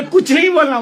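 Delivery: hammed-up shocked echo; baffled father. Father to Kalidas, disbelieving laughing cry.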